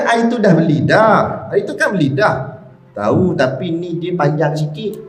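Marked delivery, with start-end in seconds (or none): 0.0-2.6 laughing parent brushing it off; parent's laughing reply. Retold or imitated. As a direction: chuckle it away, mildly amused. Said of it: "Kita kata kan". (ketawa kecil ibu bapa)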